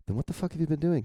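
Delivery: high-pitched incredulous comeback; mock exasperation. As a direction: lightly act out an exasperated demand, pitched high. Heated comeback in dialogue read aloud.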